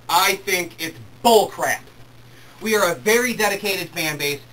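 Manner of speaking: real fan fury, slowed and loud; mad. Real, not acted. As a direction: drag out "You cannot" in anger. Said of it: "I'm sorry if I sound mad".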